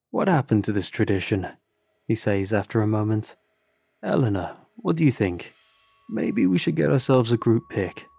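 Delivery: lightly voiced Norwegian musing; Christian suggesting a group photo, Norwegian accent. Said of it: "The accent ... Norwegian".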